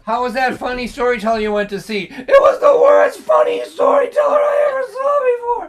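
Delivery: high, loud, fast complaining voice; mock heckler. Heckler mocking the storyteller, loud high complaint. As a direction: play an outraged audience member, laughing through it.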